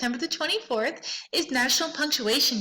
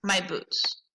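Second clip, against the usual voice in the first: slow dictation; 3 semitones lower, much slower than usual. Shown as a demonstration. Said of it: "And I would say".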